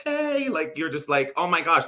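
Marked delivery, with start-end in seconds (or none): 0.0-0.5 mock high, drawn-out squeal of a greeting; long, very high, put-on call; high-pitched voice. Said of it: "if your voice goes up high". 1.4-1.9 mock exclamation, high and loud; exaggerated high, louder gush; high-pitched voice. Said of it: "your voice goes up high".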